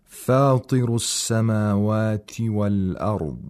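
measured tajweed recitation; Quran recitation. Shown as a demonstration. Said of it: "analyze this recitation in terms of the rules".

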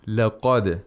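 "لقد" with thin "ل" and heavy "ق"; thin then thick. Shown as a demonstration. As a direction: open "ل" sideways and "ق" vertically in "لقد". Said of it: "vertically when pronouncing qa".

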